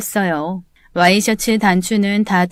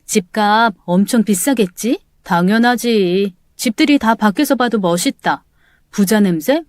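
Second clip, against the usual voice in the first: ordinary delivery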